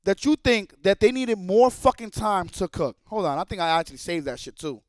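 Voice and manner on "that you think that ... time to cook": slow disbelief. Retold or imitated. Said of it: "I was like".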